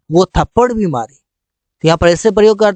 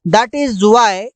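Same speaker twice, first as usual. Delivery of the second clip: slow clear English; much slower than usual. Shown as a demonstration. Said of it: "इसीलिए he came here".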